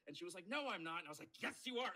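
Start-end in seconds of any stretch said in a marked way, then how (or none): 0.5-1.0 high, louder mock denial; retold yelling. Friend denying she is sick, imitated yelled protest. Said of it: "we just started yelling at each other". 1.4-1.9 very high, loud mock argument; retold yelling. Arguing with a friend over being sick, imitated high yell. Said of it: "we just started yelling at each other".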